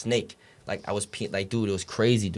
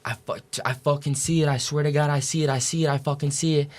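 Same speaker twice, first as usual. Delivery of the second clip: higher, urgent repeated insistence; retold agitated urgency, pitch raised; nurse freaking out; 4 semitones higher than usual. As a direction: imitate a nurse's frantic excitement, mildly. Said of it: "nurse just started freaking out".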